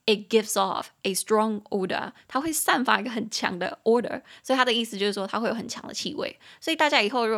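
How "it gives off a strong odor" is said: 慢速示范朗读 It gives off a strong odor; 一字一字慢慢念; slow model reading. Shown as a demonstration. (老师放慢示范英文句子)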